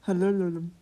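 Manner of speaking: whisper. Real, not acted.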